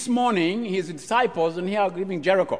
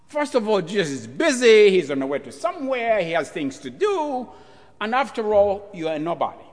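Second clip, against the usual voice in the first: louder, contemptuous put-down; dismissive scolding; 4 semitones higher, 4 dB louder than usual. Acted. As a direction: brush him off as nobody. Crowd scolds the beggar.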